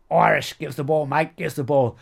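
loud, high calls across a rugby pitch; teammates shouting for the ball. Retold or imitated. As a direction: yell for the pass like an Aussie teammate. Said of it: "they used to call me".

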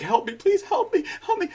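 high, laughing mock plea for help; crying for help. Friend mimics the trapped kid crying for help, in a high mock plea. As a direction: beg for help in a squeaky half-laughing voice. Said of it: "when he's crying for help".

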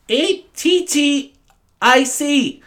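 A T T I C in high, long-drawn letters; over-pronounced. Retold or imitated. Teacher answering a pupil, exaggerated slow spelling. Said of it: "in such a pronounced way".

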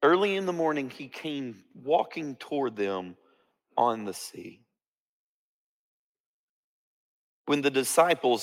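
slow, measured Bible reading with long pauses; solemn storytelling from scripture. A narrator's reading. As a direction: read the passage out deliberately, phrase by phrase.

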